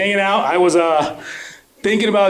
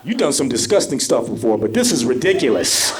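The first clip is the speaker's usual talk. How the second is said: disgusted sister; 3 semitones lower than usual. Retold or imitated. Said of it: "my sister's looking at me like".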